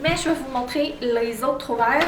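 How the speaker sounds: fast wired chatter; too much coffee. Real, not acted. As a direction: rattle it off fast, buzzing on coffee. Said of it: "On dirait que j'ai trop bu de café un matin".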